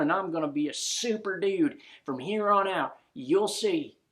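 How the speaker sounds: loud, joyful holler. Acted. Jeb hollering his thanks to the cat ghosts. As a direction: shout it out the window with relief. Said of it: "hollers out loud".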